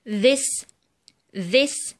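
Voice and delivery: "this" opening on buzzing th; voiced TH. Shown as a demonstration. Teacher gives examples of ذ, "this" with voiced th. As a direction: model "this" separately, rising, voiced th. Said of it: "وهننطقها ذا".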